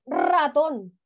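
RATÓN with a strongly rolled initial R. Shown as a demonstration. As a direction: trill the R at the start of ratón. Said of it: "Suena fuerte".

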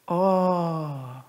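long, sinking "oh" of realizing; dismayed "oh". Retold or imitated. Husband asked about forgotten milk, dismayed drawn-out oh. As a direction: let a drawn-out "oh" slowly fall away.

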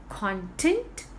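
CONtent, weight on the first syllable; stress on first syllable. Shown as a demonstration. Teacher introducing the two words to learners, CONtent with first-syllable stress. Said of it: "Where we need to put stress".

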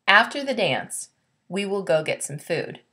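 a marked pause after "dance". Shown as a demonstration. Teacher reads aloud, pausing after "dance" to show the comma. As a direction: lift "dance" and pause before the rest. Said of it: "See how there's a natural pause after the word dance".

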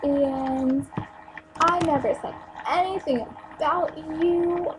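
high, drawn-out mimicking of her excuses; mock her in a slow, high sing-song; mock apologetic protest. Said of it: "and then she turns around".

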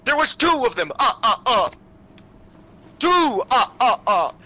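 high hammed-up panicked cries; mock panic yelling. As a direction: yelp in playful alarm. Repeating the panicked count.

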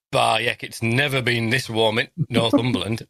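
put-on lightly done Yorkshire accent; a hint of a Yorkshire moan about the warmth; Northern accent. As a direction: grumble about the heat in a mild Yorkshire accent. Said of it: "I've gone into full Northern".

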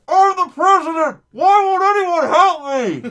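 high desperate scream. Pretend. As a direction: scream for help like a madman. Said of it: "screaming in Central Park saying".

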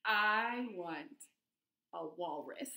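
drawn-out wish dropping low; pigeon's new demand. Acted. Pigeon switching from puppy to walrus, deliberate demand. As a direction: announce it deliberately, sinking on the last word.

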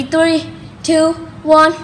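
loud, energetic countdown; excited countdown. Real, not acted. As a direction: count it down with hype. Countdown challenge to viewers.

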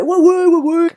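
high, loud, careless yeah-yeah; imitating Bertrand brushing her off; breezy husband. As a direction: toss it off like an unbothered husband. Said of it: "Il fait".

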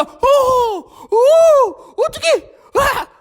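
high, loud panicked cries; panicked Peter. Acted. Peter on the water in the wind, high panicked cries. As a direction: cry out as the wind hits.

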